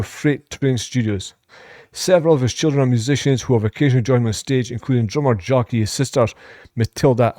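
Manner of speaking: brisk read-out of a biography; reading aloud. Real, not acted. Reactor reading a singer's career facts to viewers, evenly read out. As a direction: recite the facts evenly off the page.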